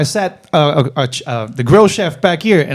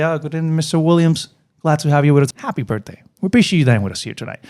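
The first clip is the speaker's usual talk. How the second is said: server greeting; faster than usual. Shown as a demonstration. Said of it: "This is something that I personally do".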